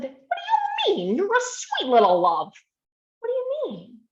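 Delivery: put-on high, sing-song coaxing to a small child; soothing a child. Therapist to sad seven-year-old, high cooing. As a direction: coo it like you're comforting a little kid.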